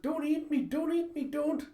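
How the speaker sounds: very high, loud squeal; panicked pleading. A narrator's reading. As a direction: beg frantically for your life. Child pleads not be eaten.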